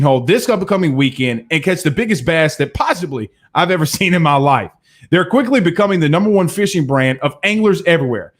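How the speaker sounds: upbeat sponsor read; lively sponsor plug from the show host. Acted. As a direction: sell the bait like a host ad.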